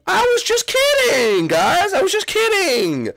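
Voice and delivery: high, loud, pleading; panicked Iggy. Acted. Iggy begging the Koopalings not to kick him out, high and panicked. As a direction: beg them to take it back.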